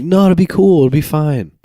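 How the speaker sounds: breezy mock bravado. Eighth grader before first tequila shots, mock bravado. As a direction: play the overconfident kid.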